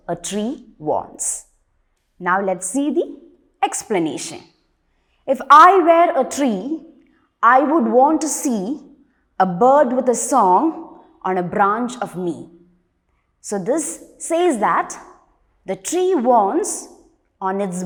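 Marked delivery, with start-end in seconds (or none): 5.3-12.5 projected line-by-line verse reading; poem recitation. Acted. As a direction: recite the verse clearly to a class. Rereads the stanza aloud.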